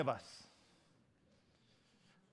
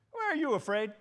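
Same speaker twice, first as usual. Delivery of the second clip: calm Jesus; 2 semitones higher, 6 dB quieter than usual. Acted. Preacher voices Jesus answering panicked disciples.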